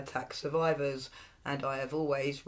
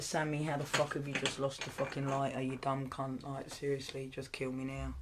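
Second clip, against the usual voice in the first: voicing her daughter; 5 dB quieter than usual. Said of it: "She's like".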